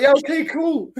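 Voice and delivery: high-pitched girly agreement, played for laughs; mock keen girlfriend. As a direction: imitate her chirping in eager approval. Imitates girlfriend, very high put-on voice.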